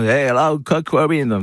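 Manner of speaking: mock English accent, high; imitating an English accent in French. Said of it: "il m'appelait avec un accent anglais".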